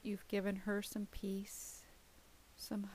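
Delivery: breathy whisper. Acted. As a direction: drop to a true whisper. Meditation voice drops to whisper.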